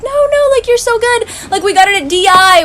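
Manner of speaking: high-pitched, super cool hosts, retold; imitated reassurance. Hosts excusing a guest's broken chair, imitated reassurance. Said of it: "but they're super cool".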